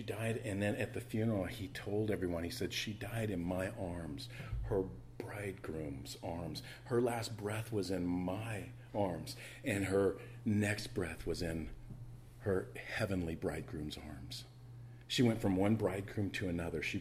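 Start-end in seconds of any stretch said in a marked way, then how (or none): 2.7-14.4 tender hushed quote. Retold or imitated. Grandpa quoted at the funeral.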